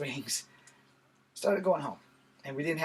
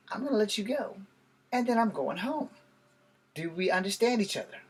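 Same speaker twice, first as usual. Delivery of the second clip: starts firm, climbs higher and louder into a warning; rising stern threat; 4 semitones higher, 3 dB louder than usual. Retold or imitated. Man holding a bully in a chokehold, warning him, voice climbing higher and louder. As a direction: tighten the threat until it peaks.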